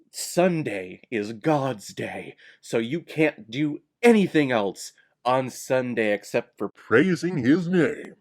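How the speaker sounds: slow, weighty mock-devout pronouncement; mock a hardcore believer laying down the rule; solemn sermonizing, put on; mock piety. Mocks devout Christian rule.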